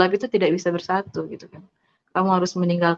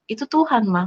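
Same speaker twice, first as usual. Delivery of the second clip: higher-pitched, falling retold retort; retold insistence; 3 semitones higher than usual. Daughter answering her mother's denial, retold insistence.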